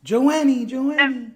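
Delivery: high, loud name call; real loud hail. Real, not acted. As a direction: call out to someone who's gone missing. Calling a silent caller back.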